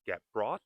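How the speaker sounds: careful learner's get brought, T released; fully pronounced T. Shown as a demonstration. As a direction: get brought with an audible final T on BROUGHT. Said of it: "It is okay to say".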